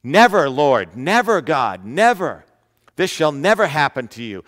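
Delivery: loud preacher's retelling of a rebuke; rebuking cry. Retold or imitated. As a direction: cry out never, as Peter rebuking Jesus. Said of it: "he began to rebuke him".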